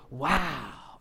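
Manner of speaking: drawn-out, awed wow; astonished. Acted. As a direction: act out a crowd's amazement.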